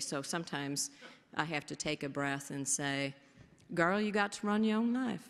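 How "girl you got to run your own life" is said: put-on Kentucky accent, done pretty well. Acting out what you sometimes take a breath and say, in a put-on Kentucky accent. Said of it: "I don't do a great Kentucky accent, but that was pretty darn good".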